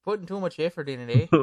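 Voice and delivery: put-on light Canadian accent with a rising "eh"; mock Canadian. Joking back about Canadians' effort, mock Canadian accent. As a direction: tease with a Canadian-style "eh" on the end. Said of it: "Canadians always sounds like they are putting".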